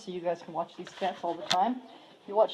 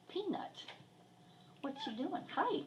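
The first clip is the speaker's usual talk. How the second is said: high, soft pet talk; high cooing to cat; 9 semitones higher, 9 dB quieter than usual. Real, not acted. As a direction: coo up high at the kitty.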